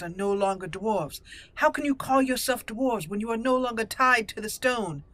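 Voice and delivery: haughty noble rebuking a petitioner; indignant, formal in-character speech; proud dwarven noblewoman. Acted. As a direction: lay down the law with aristocratic conviction. Player voices proud noblewoman answering Lord Dace.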